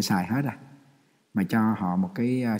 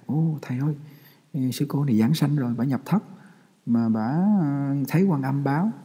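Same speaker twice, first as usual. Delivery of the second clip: excited report; 4 semitones higher than usual. Retold or imitated. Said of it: "người ta la lên".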